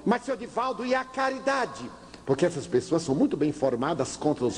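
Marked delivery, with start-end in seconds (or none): 0.1-1.8 much higher, reproachful plea; high appealing whine; pleading father. Retold or imitated. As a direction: guilt him with charity.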